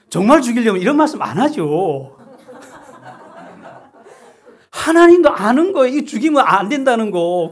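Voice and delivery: loud, high laughing exclamation; preacher laughing at God's empty threat. Real, not acted. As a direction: laugh through it in delight.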